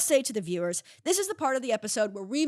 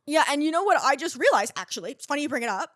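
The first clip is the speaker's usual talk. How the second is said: put-on little girl; 3 semitones higher than usual. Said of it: "I'll be the little girl now".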